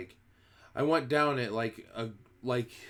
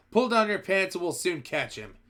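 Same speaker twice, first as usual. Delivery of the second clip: higher, mildly louder jeering call; shouted; 7 semitones higher, 4 dB louder than usual. A narrator's reading. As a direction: call out with a laugh. Cook jeering at the man.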